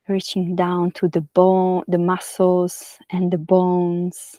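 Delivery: unhurried yoga nidra guidance with long pauses; guided meditation. Real, not acted. Yoga teacher settling listeners lying on their backs, guided meditation. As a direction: guide them gently into rest, phrase by phrase.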